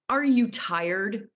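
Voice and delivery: rising question tune on tired; asking question. Shown as a demonstration. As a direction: ask it as an open question. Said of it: "instead of saying".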